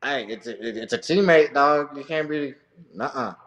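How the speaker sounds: wag a finger at him; scolding coach. Retold or imitated. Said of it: "I'm like".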